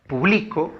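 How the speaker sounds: "publico" stressed on the middle syllable, bli; acento en bli. Shown as a demonstration. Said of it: "la mayor fuerza de voz está en bli". ("publico" con la fuerza de voz en bli)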